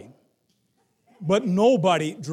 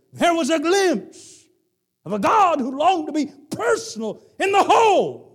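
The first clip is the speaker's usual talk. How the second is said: high, loud preacher's cry; full-force preaching shout; 13 semitones higher, 9 dB louder than usual. Acted. Preacher shouting to the congregation, high and loud. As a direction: lift it to a shouting climax.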